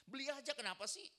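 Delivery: loud, high, annoyed retort; hammed-up irritated wife snapping back; snappy wife. Istri menolak masak, ketus. (istri ketus membentak, keras dan tinggi)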